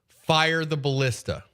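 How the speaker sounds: put-on slow Transylvanian vampire accent. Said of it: "You hear in a Transylvanian accent".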